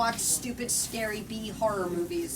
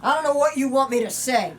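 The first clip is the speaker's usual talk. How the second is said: louder, a touch of annoyed impatience; tinged with annoyance; 3 semitones higher, 7 dB louder than usual. Acted. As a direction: let irritation creep into the apology. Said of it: "tone was tinged with annoyance".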